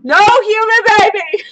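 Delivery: high, loud squealed no; laughing, high-pitched protest; emphatic denial. Real, not acted. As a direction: shoot it down loudly and high. Laughing denial of pregnancy guess.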